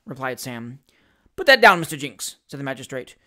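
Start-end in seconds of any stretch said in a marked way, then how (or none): 1.4-2.4 louder, irritated order; rising rage. Acted. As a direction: snap the order with growing rage. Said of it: "fast rising into a rage".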